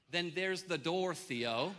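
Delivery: mildly stern dad, drawn out; calling his bluff. Retold or imitated. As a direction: lay down a slow challenge. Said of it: "I'm gonna call his bluff".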